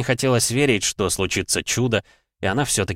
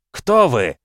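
crowd answering; 4 semitones higher, 5 dB louder than usual. Acted. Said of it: "откликнулись зрители".

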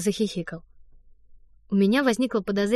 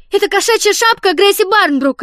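high, loud, put-on scared kid; frightened child; 11 semitones higher, 10 dB louder than usual. Don reports Fanny to the director, fake frightened child. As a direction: tattle with fake alarm. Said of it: "испуганно сообщил он".

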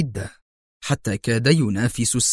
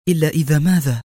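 higher, eager prompting; eager question; 4 semitones higher, faster than usual. A narrator's reading. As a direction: press for the answer, keenly. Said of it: "سألته في لهفة".

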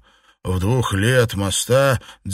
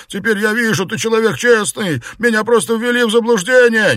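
panicked pleading; 10 semitones higher, 5 dB louder, faster than usual. Acted. Beaten Xuepan pleads.

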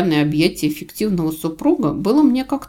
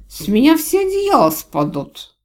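put-on giggly drunk; 9 semitones higher, 5 dB louder than usual. A narrator's reading. Drunk dragon jokes.

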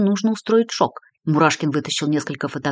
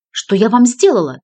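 louder, higher frightened cry; shouting; 5 semitones higher, 6 dB louder than usual. A narrator's reading. Lola crying out at the threatening detective. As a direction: cry out, cornered. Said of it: "закричала женщина".

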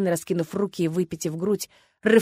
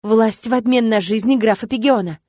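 loud demand; 2 semitones higher, 6 dB louder than usual. Acted. Rose demands at throne.

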